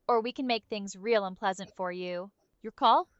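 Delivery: mobster leaning on a suspect; tough-guy interrogation voice; wise guy interrogator. Acted. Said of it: "we have to interrogate him".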